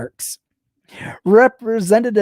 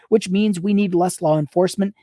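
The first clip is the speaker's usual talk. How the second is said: reading through a laugh; can't stop laughing mid-sentence; laughing while reading. Real, not acted.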